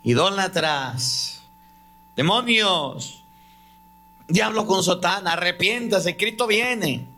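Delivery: high, slow, drawn-out preachy yelling; mimicked shouting. Street preacher shouting at the churchgoers, high mock yell. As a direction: cry out like a street preacher condemning sinners.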